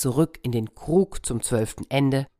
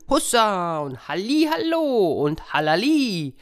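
high sung-out hunting calls; 7 semitones higher than usual. Acted. Foresters in the night wood, hunting calls. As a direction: call out like huntsmen. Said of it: "sie riefen".

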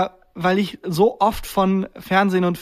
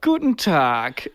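slow, cold Bond villain greeting; mock Bond villain; 2 semitones lower, much slower than usual. Imitating the driving examiner as a Bond villain, slow. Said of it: "redet wie ein Bond-Bösewicht".

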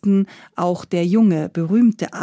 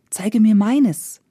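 pleading; slower than usual. Acted. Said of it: "bat der junge Arzt".

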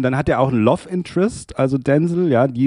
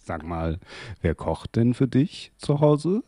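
creepy Anmache; 5 dB quieter, slower than usual. Retold or imitated. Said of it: "Ich find's creepy".

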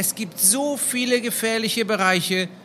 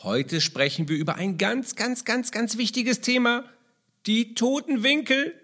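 fröhliche Kasperstimme, quirlig; lustiger Clown. Acted. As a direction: spiel den Kasper, der Kinder begrüßt. Kasper puppet greets the children. (verspielte Kasperlestimme)

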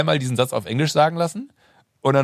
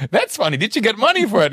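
high, laughing American voice; high and tickled; amused Keitel; 10 semitones higher, 4 dB louder than usual. Retold or imitated. Keitel amused, asking about the pay, high and laughing. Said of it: "der meinte so".

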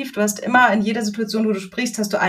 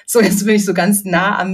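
right in your ear. Shown as a demonstration. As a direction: lean into the mic and speak close. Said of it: "Ich kann das mal vormachen".

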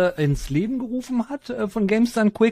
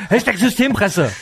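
laughing; 3 semitones higher, 4 dB louder than usual. Real, not acted. Joking hashtags, laugh heard.

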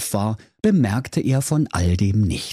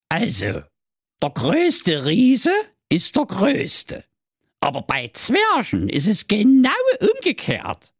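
lecturing turtle; 11 semitones higher than usual. Acted. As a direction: spell it out like a smug oracle. Oracle turtle explains. (hohe, langsam belehrende Schildkröte)

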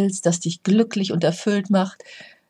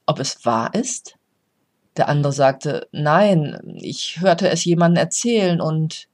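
story narration. A narrator's reading. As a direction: tell the old tale calmly, letting each question land. Reads a parable aloud.

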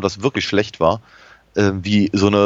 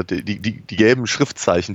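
ordinary delivery

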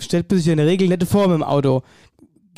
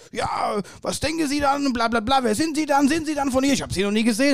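smoker's voice; 6 semitones higher, 5 dB quieter than usual. Retold or imitated. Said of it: "tiefe Raucherstimme".

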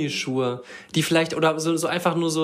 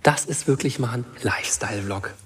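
whispering; 6 semitones lower, 3 dB quieter than usual. Real, not acted. Wry aside in pool.

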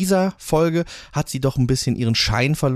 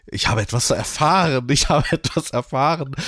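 quoting Alan; 3 semitones higher than usual. Retold or imitated. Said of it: "wie er zu allen geht und denen das Gleiche erzählt".

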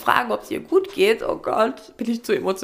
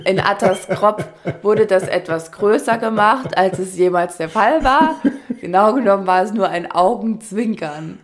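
laughing narration; 3 semitones lower, 3 dB louder than usual. Acted.

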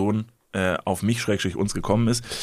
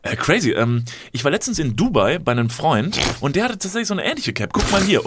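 quoting the stranger; 5 semitones higher than usual. Retold or imitated. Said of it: "hat gesagt".

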